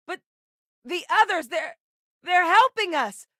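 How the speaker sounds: high, halting cry to comrades; high-pitched battle call; urgent combat shout. Acted. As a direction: yell it out, stumbling on the words. Calling out in combat.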